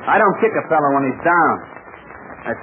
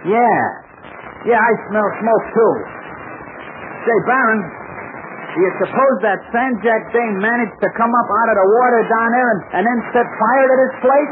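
alarmed; 6 semitones higher than usual. Acted. Alarmed at smoke.

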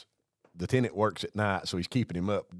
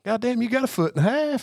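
high, loud punch line; mock amazement; 14 semitones higher, 6 dB louder than usual. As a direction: exclaim it in hammed-up disbelief. Retelling his joke's punch line.

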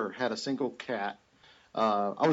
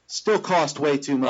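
louder, slow, half-laughing complaint; exasperated; 3 semitones higher, 7 dB louder than usual. Retold or imitated. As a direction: groan it out with a laugh. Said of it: "and I'm like".

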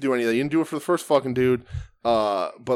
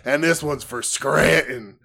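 Jake voice; 3 semitones higher, 3 dB louder, slower than usual. Retold or imitated. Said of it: "he's like".

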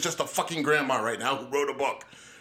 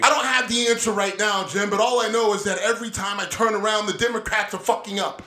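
raised shout, louder and higher; angry shout; 4 semitones higher, 5 dB louder than usual. Real, not acted. Arguing with Jim, shouting in frustration. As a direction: yell it over the argument.

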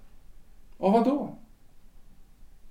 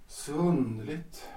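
slow and soft again, "underligt" drifting up; a stunned husband talking to himself; dazed echo; 7 dB quieter, slower than usual. Acted. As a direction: repeat it quietly, lost in thought. Alone after wife leaves.

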